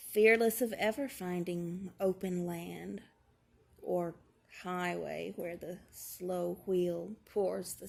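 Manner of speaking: slow, measured poem recitation; poetry reading. Acted. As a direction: read the verse slowly, pausing between phrases. Reads a poem aloud.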